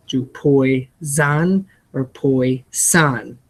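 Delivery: "poison" said slowly both ways; slow contrast of poison. Shown as a demonstration. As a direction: let "poison" and "poison" sound different. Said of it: "I guess you choose".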